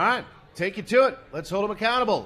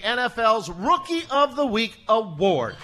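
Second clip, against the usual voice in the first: hyped introduction; 5 semitones higher, 6 dB louder than usual. Real, not acted. Host introduces guest to crowd.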